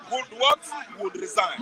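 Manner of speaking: diplomatic. Shown as a demonstration. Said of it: "I was trying to be, you know, more this thing, uh, uh, uh, diplomatic".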